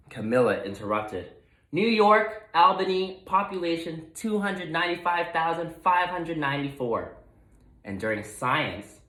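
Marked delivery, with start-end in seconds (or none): 1.7-7.2 eager blurt. A narrator's reading. Know-it-all capybara blurts answer.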